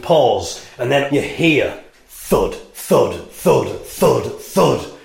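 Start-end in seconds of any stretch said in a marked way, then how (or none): 2.1-4.9 mock thud sounds. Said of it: "the sound of".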